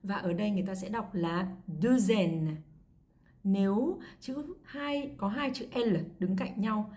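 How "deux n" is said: "deux N" joined by a z sound; liaison with Z. Shown as a demonstration. Teacher explaining the linking rule, "deux N" with z liaison. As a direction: carry a z from "deux" into "N". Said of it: "nối sang bằng âm Z".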